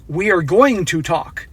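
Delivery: slow, deliberate and firm; steady, unbending tone; firm, no-nonsense. Pretend. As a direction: lay it down as a statement, not a request. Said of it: "I would say".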